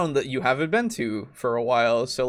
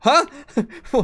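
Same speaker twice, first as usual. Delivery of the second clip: high, confused stammer with a laugh; mock bewilderment at the twist; baffled "huh"; 13 semitones higher, 6 dB louder than usual. And it's like.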